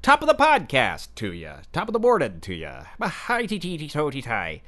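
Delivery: a light put-on British Isles lilt; hammed-up Irish-ish greeting; jokey UK accent lilt. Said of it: "it's another accent that I can do".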